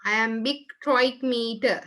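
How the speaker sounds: slow, even dictation for the class; dictating slowly. Shown as a demonstration. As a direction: say it slowly so they can write. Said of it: "Write down here".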